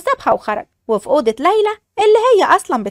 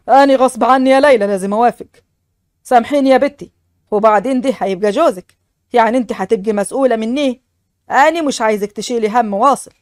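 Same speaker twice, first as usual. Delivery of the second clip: put-on a lower man's voice for the old father; father's voice; 4 semitones lower than usual. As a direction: speak as a serious village father. Father pleads with daughter. (صوت الأب الجاد بنبرة أخفض)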